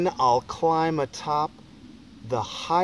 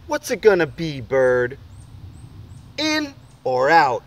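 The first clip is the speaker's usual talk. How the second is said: eager challenge; 3 dB louder than usual. Acted. Boy challenges the bird.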